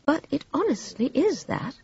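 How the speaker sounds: soft-spoken honesty; quiet. A narrator's reading. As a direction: insist gently and sincerely. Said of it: "said Claire quietly".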